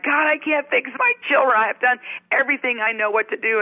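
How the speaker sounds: retold cry to God. Mother praying in the shower, retold desperate plea. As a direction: plead in exasperation, easing toward the end. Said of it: "I'm screaming out to God".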